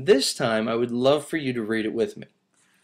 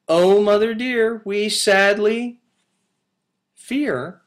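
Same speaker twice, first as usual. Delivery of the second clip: kitten voice; 8 semitones higher, 6 dB louder than usual. Acted. Kittens confess, third reading.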